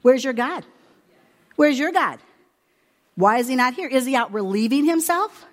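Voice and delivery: mock taunt, pitched a little up; retold jeering challenge. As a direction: taunt them, calling out the question. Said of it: "Elijah actually mocks them and says".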